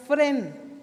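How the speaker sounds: fren with an accented E; stress on E of fren. Shown as a demonstration. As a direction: lean on the E in fren. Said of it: "con acento en la E".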